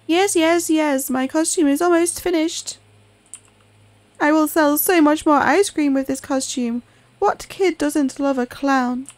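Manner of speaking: squeaky proud clown seller; eager high voice, a bit hammed up; high-pitched clown voice. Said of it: "Trying to give him, like, a high-pitched voice".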